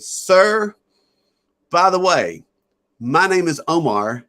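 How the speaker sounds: put-on a child announcing himself with solemn politeness; little boy voice. Five-year-old boy introduces himself.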